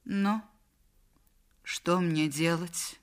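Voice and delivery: slow, halting question; helpless. Acted. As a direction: ask at a loss, with a long hesitation. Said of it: "беспомощно сказала Мадлен". (беспомощно, растерянно)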